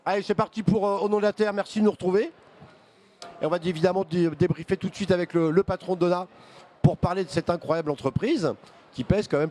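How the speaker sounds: talking through a mouthful; words around a bite of food; mouth full. Real, not acted. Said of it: "Je parle un peu la bouche pleine".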